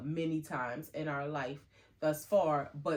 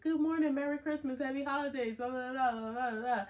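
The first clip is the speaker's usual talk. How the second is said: chirpy greetings; 8 semitones higher than usual. Retold or imitated. Greeting hotel guests, chirpy.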